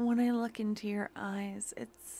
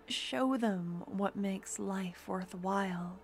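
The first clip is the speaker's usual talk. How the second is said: intimate roleplay voice. Acted. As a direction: murmur it close to the mic like a devoted partner. Romantic audio roleplay throughout.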